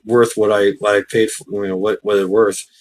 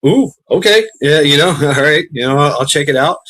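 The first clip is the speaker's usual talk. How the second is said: mock awkward agreement; 4 semitones higher, 4 dB louder than usual. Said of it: "I'm like".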